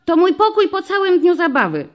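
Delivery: put-on high, loud child voice, blurted out; blurting little girl. A narrator's reading. Girl with bows blurts to the policeman: high eager child voice. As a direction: pop out the answer like an eager kid. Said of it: "wyrwało się dziewczynce z kokardami".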